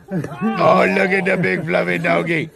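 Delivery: high, cooing pet voice between laughs. Real, not acted. Host cooing at a fluffy dog in a video, laughing baby talk. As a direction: gush over the fluffy doggy like a puppy lover.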